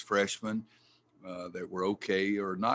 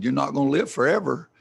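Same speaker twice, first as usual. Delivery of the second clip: retold protest; 6 semitones higher, 8 dB louder than usual. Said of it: "And I said".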